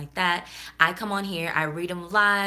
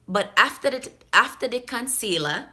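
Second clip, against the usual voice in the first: higher-pitched Jamaican patois; Jamaican accent; 6 semitones higher, 4 dB louder than usual. Acted. Vlogger trying a viewer's email in Jamaican accent. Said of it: "try to do it in the accent".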